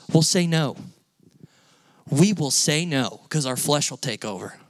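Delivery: ordinary delivery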